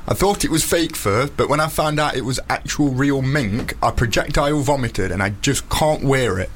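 reading aloud in a Nottingham accent. Real, not acted. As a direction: read the letter in broad Nottingham. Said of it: "in his very sexy Nottingham accent".

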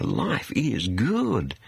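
very slow, drawn-out words; mock contentment. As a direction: imitate self-satisfied partygoers savouring it. Mimics party people, drawn out.

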